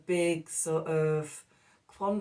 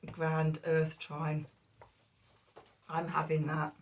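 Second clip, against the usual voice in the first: after coughing. Real, not acted. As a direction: voice rough from coughing. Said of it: "I'm still coughing and spluttering".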